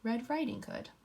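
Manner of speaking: put-on reading a picture book to children; story narration. A narrator's reading. Teacher reading aloud to her class, story voice.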